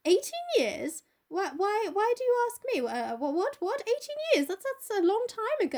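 high-pitched, stammering mock alarm; flustered stalling. Dorian questions the brother pinning him, flustered. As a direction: squeak out startled questions, playing for time.

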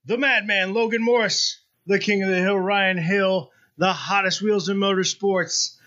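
booming circus announcer intro; ringmaster. Pretend. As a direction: announce it like a big top ringmaster.

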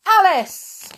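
high, loud summons; read out loud. A narrator's reading. White Rabbit reading out the next witness, loud high call. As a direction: call the name high and long. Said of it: "the White Rabbit read out".

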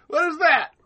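high-pitched incredulous question; mock bewilderment. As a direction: play a creature startled by what it spots. Acts out startled Shrieker looking.

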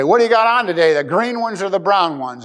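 imitated schoolkid jeer, pitched high; belittling taunt. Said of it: "he would laugh and belittle me".

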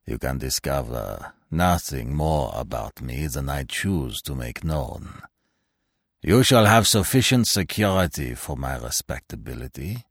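low looming threat, dry and cold; cold, low, unhurried warning. Acted. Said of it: "said the stranger dryly".

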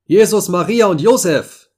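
high, loud cry of alarm; young sailor's scream. A narrator's reading. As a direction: cry out to the holy names at a sudden sight. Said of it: "schrie ein junger Portugiese". (lauter, hoher Aufschrei)

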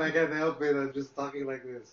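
a hint of the action star, laughing at himself; Arnold Schwarzenegger impression. Joking with friends about the contest, a light mock Arnold voice. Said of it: "I'll just talk in Arnold voice".

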